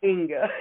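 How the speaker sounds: Jenga repeated as a demo, first syllable as in Jennifer. Shown as a demonstration. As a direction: repeat Jenga to show your own pronunciation. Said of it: "probably like Jennifer".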